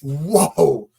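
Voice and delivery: incredulous outburst. Real, not acted. Host reacting to Eddie often stopping to help workers, loudly incredulous. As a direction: stop everything with a loud, astonished objection.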